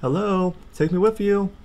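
loud high plea; high loud mock plea to be taken along; calling after them. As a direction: shout after the family leaving. Left behind by family.

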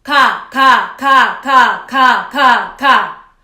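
quick, loud 가 repeats. Shown as a demonstration. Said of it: "이걸 조금 빠르게 해볼게요".

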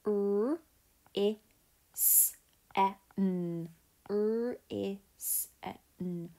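teacher sounding out risen; Fred talk. Shown as a demonstration. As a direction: sound out each letter separately. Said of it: "So let's just Fred talk".

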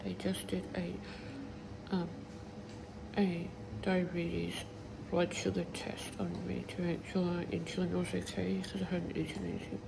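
talking through a swollen, sore mouth; words blurred by a swollen jaw. Real, not acted. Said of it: "It's really s-, sore down my mouth".

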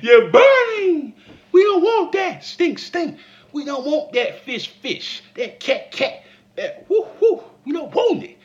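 high, loud laughing refusal; hammed-up giggling disgust; laughing mock rejection. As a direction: squeal through laughter. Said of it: "little Johnny said when he was in the clinic".

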